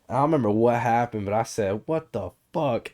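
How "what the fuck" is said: high, slow cartoon duck voice; a rough go at a cartoon duck; lightly squawked, drawn-out duck impression; Donald Duck. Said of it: "in the Donald Duck voice".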